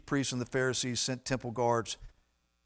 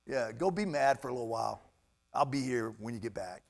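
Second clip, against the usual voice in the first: God's calm reply; 3 semitones lower, 4 dB quieter than usual. Acted. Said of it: "God's like".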